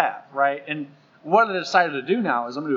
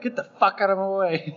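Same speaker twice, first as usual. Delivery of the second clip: raised mock-angry yell, higher pitch; rude old grouch; 5 semitones higher, 4 dB louder than usual. Rude old person to whoever's in the way, mock-angry. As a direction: play a rude old crank telling someone off. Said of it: "the assholes who are like".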